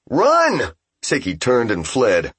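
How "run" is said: yell. A narrator's reading. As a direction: scream the warning. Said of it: "Ippei yelled".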